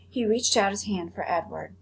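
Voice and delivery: put-on reading a chapter aloud to children; read-aloud storytelling voice; story narration. A narrator's reading. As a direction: tell the story gently, with character voices. Teacher reads chapter aloud.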